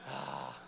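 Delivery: low, drawn-out sigh; acted sigh of frustration; pained sigh. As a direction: let out a heavy, low groaning sigh. Agonized sigh while retelling drive.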